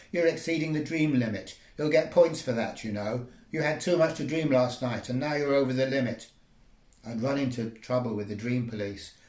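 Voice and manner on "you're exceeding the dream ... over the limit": robot policeman. Acted. Robot policeman keeps lecturing.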